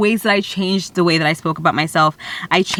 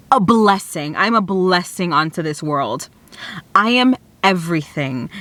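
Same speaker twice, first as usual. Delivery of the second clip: self-affirmation; 3 semitones lower than usual. Shown as a demonstration. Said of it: "pretend nobody's around".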